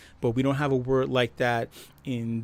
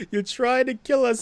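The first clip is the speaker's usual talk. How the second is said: louder, higher outraged yell; outraged shout; 8 semitones higher, 4 dB louder than usual. Retold or imitated. Citizen yelling at the politician, outraged shout. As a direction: shout it back in disbelief. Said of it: "It's like".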